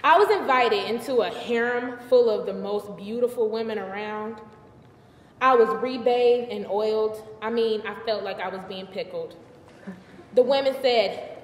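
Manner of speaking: lightly theatrical, defensive storyteller; a woman recounting her scandal with a touch of sass; Bathsheba telling her story. Acted. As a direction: set the record straight for your audience. Performs Bathsheba monologue.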